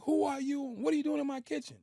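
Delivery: mock yell, pitched high; retold yelling. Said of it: "He just starts yelling at me".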